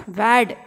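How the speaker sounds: vad said loud and set apart as one punchy word; mnemonic punched out. Shown as a demonstration. Teacher stressing the mnemonic vad for students, loud. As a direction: hit vad hard so students remember it. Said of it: "That means vad".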